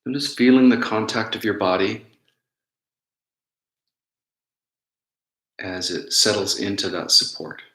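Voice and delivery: unhurried meditation guidance with long pauses; guided meditation. Real, not acted. Teacher guiding listeners to notice their breath, calm guided meditation. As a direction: guide them gently inward, leaving space between phrases.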